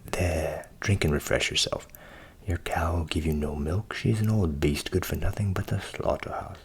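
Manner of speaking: a hint of a plain-spoken butcher; lightly voiced butcher. Butcher advising Hans over his cow, lightly voiced character. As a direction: lightly play a butcher giving advice.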